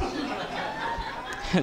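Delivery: soft breathy laugh. Real, not acted. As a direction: laugh quietly under the audience. Laughs after his own bit.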